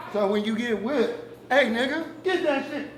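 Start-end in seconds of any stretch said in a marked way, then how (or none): 1.5-2.9 higher, louder barked order; mock overseer yell. Overseer yelling at someone getting whipped, harsh mock shout. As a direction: bark it at the whipped man like an overseer.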